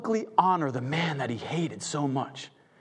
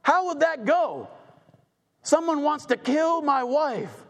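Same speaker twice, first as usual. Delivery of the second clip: angry disbelief; 8 semitones higher than usual. Acted. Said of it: "how angry the king would be".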